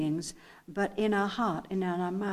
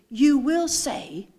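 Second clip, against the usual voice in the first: louder, slow "will"; stress on will; 4 semitones higher, 6 dB louder, slower than usual. Shown as a demonstration. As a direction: drive "will" home as a promise. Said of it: "I want you to get the inflection in my voice".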